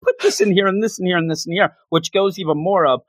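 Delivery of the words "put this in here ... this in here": fast, slightly high doting mother; fussing mom. Retold or imitated. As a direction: pack his bag like a worried mom. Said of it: "her that morning".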